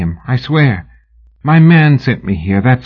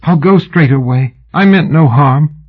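high, louder begging; pleading; 8 semitones higher, 5 dB louder than usual. A narrator's reading. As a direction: promise to leave, pleading. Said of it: "she pleaded".

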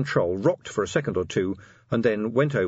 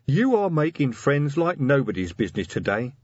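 higher-pitched troll voice, pleased with himself; troll officer; 6 semitones higher than usual. A narrator's reading. Troll officer needles the messenger, triumphant. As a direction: play a troll getting his jibe in.

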